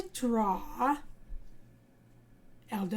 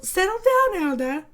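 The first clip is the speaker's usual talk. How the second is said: high, loud hushing; calm the kid down playfully; mock-calming mom; 7 semitones higher, 7 dB louder than usual. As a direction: mom tells overexcited Elda to settle, high-pitched. Mom calms excited child.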